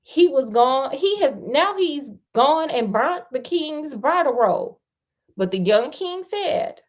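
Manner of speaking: fairy tale read out with emphasis; story narration. A narrator's reading. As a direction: tell it like a lively storyteller. Reads the fairy tale aloud.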